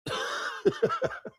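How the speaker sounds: sudden squeaky high-pitched laugh; high cackling laugh. Real, not acted. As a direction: burst into a high wheezy giggle. Laughs after the rant.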